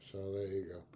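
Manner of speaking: breathy muttered aside; whispered under the breath. Real, not acted. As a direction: drop to a whisper. Muttered aside after swearing.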